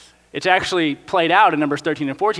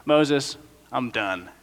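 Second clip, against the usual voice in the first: lower, quieter fed-up sigh; weary God; 4 semitones lower, 4 dB quieter than usual. Pretend. God telling Moses he's done with this generation, low and weary. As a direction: speak low like a tired parent. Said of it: "God goes".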